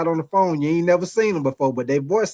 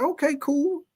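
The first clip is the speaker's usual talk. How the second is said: pitched up, relieved okay; relieved high voice; 9 semitones higher, 4 dB quieter than usual. Retold or imitated. Seeing the sister come out, a relieved high okay. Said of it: "I'm like".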